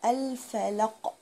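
الفلق very slow with clear short vowels; slow model word; slow falaq. Shown as a demonstration. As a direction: draw out الفلق. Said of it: "دي برضو زيها".

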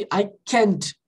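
drawn-out can't; teacher modelling can't slowly; slow model. Shown as a demonstration. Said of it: "mais fácil de falar".

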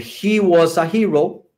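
"He was a hero" slowly, S joined onto "a"; linked words. Shown as a demonstration. English teacher showing students where the S links, slow and linked. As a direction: run the S of "was" into "a", unhurried. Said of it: "la S que está aquí, la unimos aquí".

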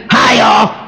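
Pastor Tim voice. Retold or imitated. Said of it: "you gotta add that little, eh".

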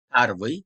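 "pervıy" with the stress on PER; Russian word pervıy. Shown as a demonstration. Teacher modelling Russian for students, stressed first syllable. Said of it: "sayı sıfatı birinci".

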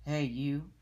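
loud grouchy challenge; ladybug voice. Acted. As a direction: bark it like a grumpy bug.

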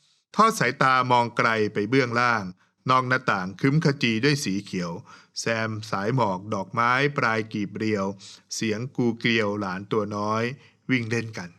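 poem recitation. Retold or imitated. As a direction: savour each line like a recited poem. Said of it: "ลองดูต่อไปครับ".

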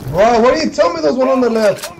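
annoyed. Real, not acted. Annoyed at teammate's callout.

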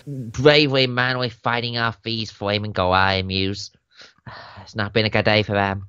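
lightly hammed-up Australian newsreel voice; Australian accent. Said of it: "That was intentionally an accent".

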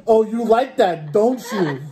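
slow and high, hamming up seduction; mock seductive. Teasing friend with mock sex talk.

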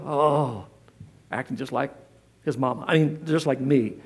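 sheepish mutter. Retold or imitated. Parent sheepish aside.

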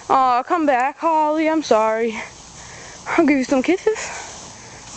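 slow, high coaxing to a pet. Real, not acted. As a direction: drawl it sweetly to the dog. Coaxing the dog, repeated.

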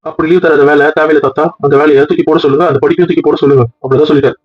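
lightly voiced old grandfather, firm; a hint of an old man settling the matter; mild grandfather voice, decisive; stern grandpa. Grandfather lays down the law.

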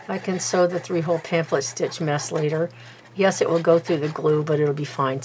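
talking around a pin held in the lips; pin in mouth. Real, not acted. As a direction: speak with a pin between your lips. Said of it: "I'm talking with the, the pin in my mouth".

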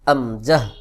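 আমজাহ said quickly, no held vowel; short, unstretched. Shown as a demonstration. Teacher shows the exception to learners, আমজাহ quick and unstretched. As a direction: say আমজাহ without drawing it out. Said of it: "টান ছাড়া অর্থাৎ দ্রুত উচ্চারণ".

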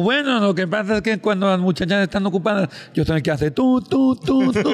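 high, loud nasal gangoso ending in phone beeps. Acted. Gangoso explaining he makes the busy tone, high and loud. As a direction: squeeze the tú tú tú like a busy signal. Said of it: "que era un gangoso".

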